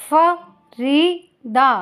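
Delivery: very slow, stretched फरीदा; slow careful model word. Shown as a demonstration. Teacher modelling फरीदा slowly for listening pupils. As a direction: draw out फरीदा for the class. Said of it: "listen to your teacher say the following words".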